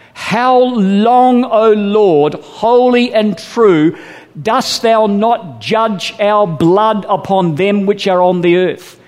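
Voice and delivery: high, slow pleading cry of the souls; crying out to God. Acted. Preacher voicing the souls under the altar, pleading cry. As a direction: plead upward as the martyred souls. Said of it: "cry to God".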